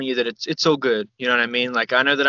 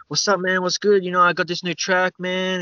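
lightly voiced CD seller, higher; friendly sales patter, pitched up a little; street hustler's pitch; 5 semitones higher than usual. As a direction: pitch your track like a hustler, lightly imitated. Imitates CD hustler pitching his track.

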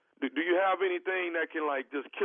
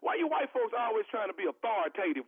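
fast, higher, indignant customer; indignant prank caller; 5 semitones higher than usual. Pretend. Prank caller to clerk, fast and indignant. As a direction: rattle it off offended.

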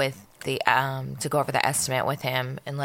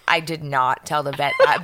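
laughing; 3 semitones lower, 3 dB louder than usual. Real, not acted. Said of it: "just started dying laughing".

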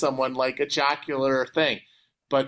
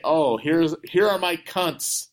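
slow, hard American delivery; American accent; slower than usual. Shown as a demonstration. Showing how it sounds in the US, American accent. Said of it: "in the U S, if you say".

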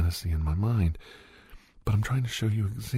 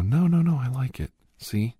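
high, loud rush of no no no, then settling; eager girl's protest; 4 semitones higher, 5 dB louder than usual. Acted. Playing the girl, insisting to the guy that she likes it, eager and loud. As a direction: jump in quickly to reassure him.

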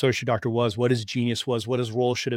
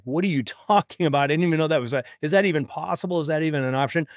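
lit up, amazed; 3 semitones higher than usual. Retold or imitated. Doctor hearing of another option, mildly amazed and lit up. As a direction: imitate someone suddenly lighting up with hope. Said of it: "this guy lit up".

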